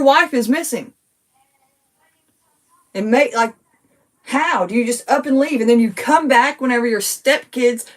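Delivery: venting real anger at the stepdad; worked up. Real, not acted. Daughter venting to viewers, getting worked up and heated. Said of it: "Sorry, y'all, I got worked up".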